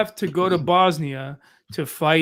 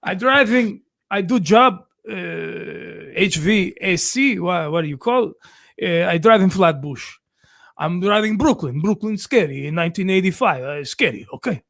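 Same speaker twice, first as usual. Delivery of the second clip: broken-English Croatian stepfather; Croatian accent. Retold or imitated. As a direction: tell it like a Croatian dad. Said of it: "you gotta tell it in his voice".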